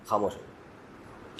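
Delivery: very soft, slow, low hush; barely voiced, drawn-out mock plea. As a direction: drop right down and plead for silence. Weary man pleading with braying donkey.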